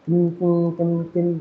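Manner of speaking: imitated ting. Shown as a demonstration. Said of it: "इसकी आवाज़".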